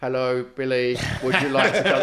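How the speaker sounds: lightly done robot phone voice. Acted. Mimicking landline text-to-speech calling Billy, hint of robot voice. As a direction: imitate a landline text reader. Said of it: "It's like a robot voice".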